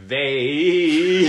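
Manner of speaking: loud word wobbling into a laugh; quivering voice. Real, not acted. Player trying to say the line straight, voice quivering. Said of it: "Uh, my voice quivered".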